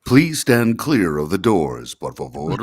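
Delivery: slow, loud announcer voice; train station announcement. Retold or imitated. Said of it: "can't even say it anymore".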